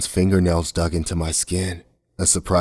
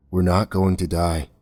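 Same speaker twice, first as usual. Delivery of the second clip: softly. Acted. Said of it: "Kaz said softly".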